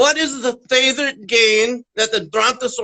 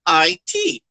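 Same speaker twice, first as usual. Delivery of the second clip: spelling out; much slower than usual. Shown as a demonstration. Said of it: "I even spell it kind of weird".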